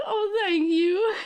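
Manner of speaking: slow, tearful thank you; drawn out through real tears; slow crying thanks. Real, not acted. Streamer thanks chat for gift subs while crying. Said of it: "That's why I'm crying".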